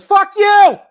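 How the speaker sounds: high, loud mock yell at the bear. Retelling the dog mom yelling at the bear, loud mock shout. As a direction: bark it out like the angry dog mom. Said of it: "the fucking dog mom goes".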